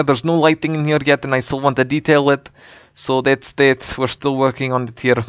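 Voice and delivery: a light put-on Russian accent held throughout; practice-run Russian accent, kept casual. Touring his game build for viewers, in a light Russian accent. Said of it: "I'm really tired of speaking in a Russian accent".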